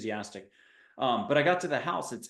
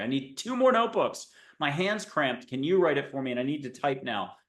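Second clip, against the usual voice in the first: mock complaint. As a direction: play an overwhelmed writer complaining. Imagined writer protesting the task.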